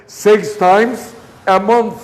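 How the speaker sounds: "month" stressed at a slow pace; emphasis on month. Shown as a demonstration. Teacher stresses the frequency so students copy it. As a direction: lean on "month" to mark the frequency. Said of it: "Enfaticen eso".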